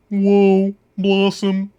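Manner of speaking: a high, loud "Whoa," stretched like the sitcom catchphrase; Blossom catchphrase. Retold or imitated. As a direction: belt it out like Joey Lawrence's famous Blossom "Whoa". Quoting Joey Lawrence's Blossom catchphrase.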